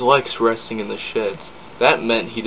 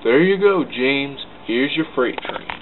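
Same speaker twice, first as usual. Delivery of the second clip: cheerful Percy; 4 semitones higher than usual. Acted. Percy cheerfully hands over trucks.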